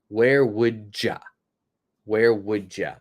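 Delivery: "Where would ya?" with "you" reduced to "ya"; casual reduced form. Shown as a demonstration. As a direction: say "Where would ya?" linked and quick. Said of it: "My pronunciation is".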